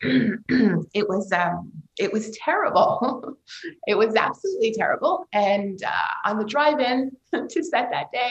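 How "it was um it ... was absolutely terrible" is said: ordinary delivery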